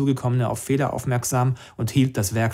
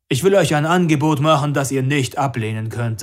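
put-on movie boss voice, starting loud; mock deep voice; 3 semitones higher, 5 dB louder than usual. A narrator's reading. Max jokingly makes Anna an offer, mock deep voice. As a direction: play at a deep, weighty offer. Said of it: "mit gespielt tiefer Stimme".

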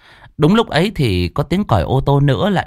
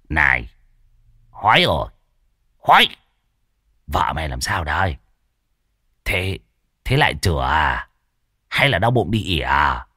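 low, snide teasing; sarcastic jab; 4 semitones lower than usual. A narrator's reading. Old Đồng teasing Hói about his wife, low snide jab. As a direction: needle him with a smirk. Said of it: "nghe Đồng già xỏ xiên".

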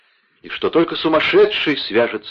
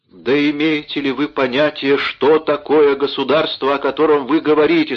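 scornful question; 4 semitones higher, 4 dB louder than usual. Acted. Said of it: "спросила, пожимая плечами".

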